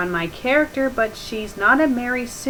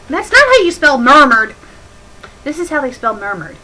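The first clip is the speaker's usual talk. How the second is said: exasperated correction; 5 semitones higher, 8 dB louder than usual. Real, not acted.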